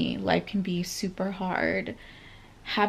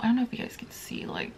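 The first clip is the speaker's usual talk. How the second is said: whisper; 3 semitones higher, 5 dB quieter, much faster than usual. Real, not acted. Aside about her lashes.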